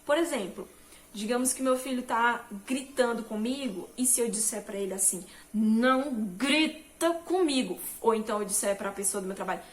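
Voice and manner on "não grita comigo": louder, slow stern scolding; harsh reaction. Retold or imitated. Mother to her shouting son, louder stern scolding. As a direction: snap back at the shouting child, loud and slow. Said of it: "eu estou reagindo de uma forma nada sábia".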